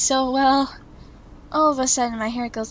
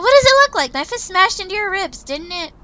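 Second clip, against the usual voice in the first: indignant; 8 semitones higher, 5 dB louder than usual. Acted. Winter defends her punch.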